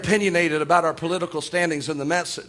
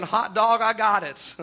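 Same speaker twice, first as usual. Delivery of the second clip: retelling a new convert's gleeful shout; excited hot dog shout; slower than usual. Retold or imitated. Preacher quoting a convert's joy at the altar, mildly excited. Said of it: "You don't have to say it that way".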